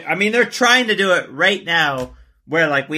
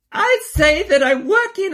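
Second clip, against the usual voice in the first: high, put-on accent; hammed-up foreign first lady voice; Melania voice. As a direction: do a mock Melania Trump. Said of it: "let me do my Melania voice".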